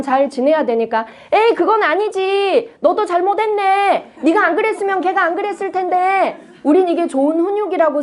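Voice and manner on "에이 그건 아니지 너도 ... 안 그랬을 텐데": higher, dismissive mock scolding; an impatient mom lecturing her kid; scolding parent. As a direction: brush off the child's feelings, lightly voiced.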